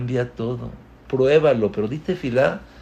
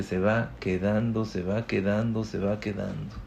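fading repetition; 2 semitones lower, 6 dB quieter than usual. Acted.

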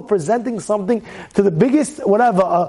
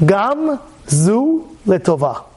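slow solemn saying; much slower than usual. Shown as a demonstration. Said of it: "you say these words".

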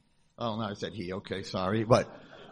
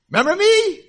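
high chirpy question; 13 dB louder than usual. Retold or imitated. Girl asks if he remembers.

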